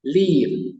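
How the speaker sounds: "Leave" claro y marcado; lip-reading demo. Shown as a demonstration. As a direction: articula "Leave" con la boca bien abierta. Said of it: "observe mis labios". ("Leave" exagerado para leer los labios)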